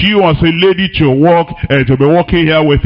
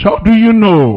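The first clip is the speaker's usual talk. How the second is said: incredulous; 2 semitones higher than usual. Acted. Preacher mocking church gossip.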